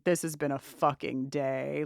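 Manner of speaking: deadpan tired low drone; deep monotone. Retold or imitated. Host recapping, quoting Nat's weary line in a deep monotone. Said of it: "deep monotone voice just saying".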